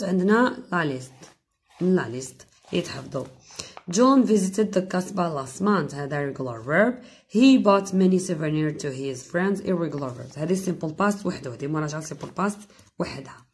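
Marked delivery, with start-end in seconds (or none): 3.9-5.9 slow example sentence, every word spaced; slow dictation. Shown as a demonstration. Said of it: "teacher reads example slowly". 7.3-9.6 slow example sentence, every word spaced; slow dictation. Shown as a demonstration. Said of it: "teacher reads example slowly".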